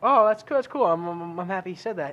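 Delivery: mock excited. Excited mock reply to a post.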